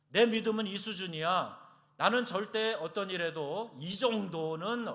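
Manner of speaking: loud, cocky boast of unshakable faith; puffed-up, self-assured declaration; proud boast. Retold or imitated. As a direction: brag like nothing could ever shake you. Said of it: "이게 자만이에요".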